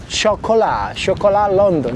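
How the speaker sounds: Chocolat said the French way, final t silent; French-style name. Shown as a demonstration. Vlogger reads a boat name the French way. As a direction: Chocolat London read as a French shop name. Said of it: "this is the name".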